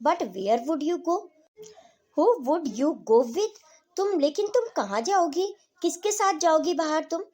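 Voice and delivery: loud, high, slow demanding questions; a nosy daughter pressing her mother loudly; insistent questioning. Acted. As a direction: push her with each question, voice up. Doris presses Mrs Pearson, questioning.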